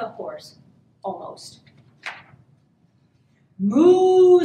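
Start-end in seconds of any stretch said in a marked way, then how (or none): 3.6-4.4 loud, drawn-out moo; cow mooing. A narrator's reading. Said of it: "said the cow".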